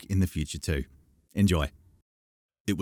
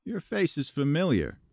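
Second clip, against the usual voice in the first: polite; 9 semitones higher than usual. A narrator's reading. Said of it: "he said politely".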